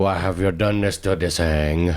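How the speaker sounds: bad Bangladeshi accent. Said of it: "What accent was that".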